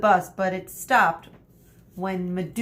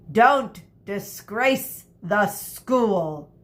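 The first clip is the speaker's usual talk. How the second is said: stern teacher; slower than usual. Acted. Teacher's stern warnings continue.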